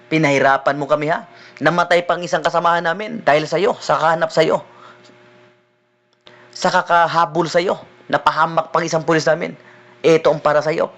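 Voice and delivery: a policeman berating the escaped prisoner; angry police officer. Retold or imitated. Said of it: "At sasabihin sa'yo ng pulis". (pulis na galit, mas mababang boses)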